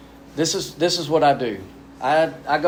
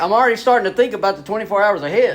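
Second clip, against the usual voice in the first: exasperated retort; 5 semitones higher, 4 dB louder, much faster than usual. Retold or imitated. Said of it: "I'm like".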